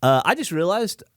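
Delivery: numb mouth after the dentist. Real, not acted. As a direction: talk through a numb fat mouth. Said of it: "my mouth is all numb, so I feel like I'm, uh, I feel like I got fat mouth".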